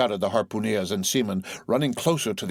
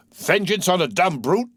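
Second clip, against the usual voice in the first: indignant cry; 9 semitones higher, 4 dB louder than usual. A narrator's reading. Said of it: "cried Starbuck".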